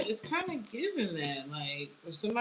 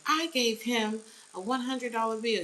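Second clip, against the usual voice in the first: higher, insistent complaining voice; whiny Karen; 6 semitones higher, 3 dB louder than usual. Retold or imitated. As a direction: whine it like you were cheated. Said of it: "really tried to get this man jammed up".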